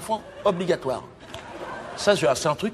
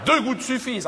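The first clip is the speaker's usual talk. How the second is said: higher, shouted warning; mock alarm shout; 8 semitones higher than usual. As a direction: bark it like a danger sign. Hyping Jean-Marie as nitroglycerine.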